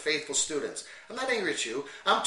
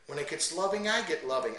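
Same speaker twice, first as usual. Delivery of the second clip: loving. Shown as a demonstration. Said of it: "you notice how I adjust to the passages".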